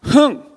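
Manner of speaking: short, high, loud "hmph"; a scornful puff through the nose; huffy snort. Shown as a demonstration. Showing children how the girl snorted at her gift, huffy. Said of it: "콧방귀는 어떻게 끼는 거예요".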